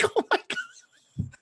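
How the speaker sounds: very high, slow, drawn-out whimper; whimpering as she hangs up; retold whimper. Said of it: "And I'm like".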